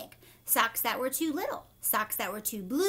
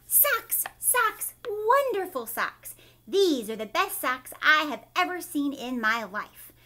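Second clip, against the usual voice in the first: excited yell; 5 dB louder than usual. Acted. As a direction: shout it out like a thrilled child. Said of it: "Tina ran home and yelled".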